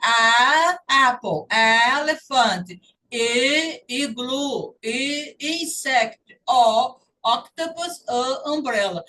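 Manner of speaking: teacher demo of short vowels with key words; short vowel sounds. Shown as a demonstration. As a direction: say each short vowel loud and clear, then its word. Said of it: "esse som aqui é do som curto".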